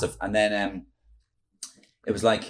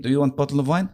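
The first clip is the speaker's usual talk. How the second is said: Mourinho; 5 semitones higher, faster than usual. Retold or imitated. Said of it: "do Mourinho to the Chelsea players".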